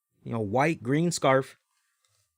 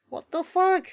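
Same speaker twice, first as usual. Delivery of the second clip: much higher mock Nigerian accent exclamation; 13 semitones higher than usual. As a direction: toss off a cartoonish Nigerian accent. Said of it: "busting out a Nigerian accent".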